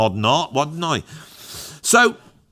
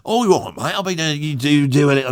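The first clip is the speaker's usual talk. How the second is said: lightly voiced Cockney bloke; a hint of a Cockney geezer like a used car salesman; faster than usual. Cockney bloke chatting up the young painter, a hint of Cockney. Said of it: "then I went Cockney".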